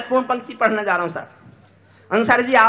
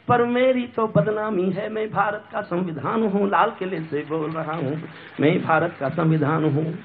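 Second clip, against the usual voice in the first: lower, steady recitation; restrained, rhythmic stage poetry; sombre verse; 4 semitones lower than usual. Acted. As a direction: recite it low and measured.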